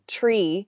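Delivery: TREE with a plain T, no TH; three said as tree. Shown as a demonstration. Mimicking how castmates hear her accent, TREE with a hard T. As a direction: stretch out TREE, hard T at the front. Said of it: "they would slag me, or jeer me, for saying".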